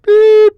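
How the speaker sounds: loud high beep sound; shrill vocal censor beep; mouth bleep. Shown as a demonstration. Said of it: "That wasn't that good".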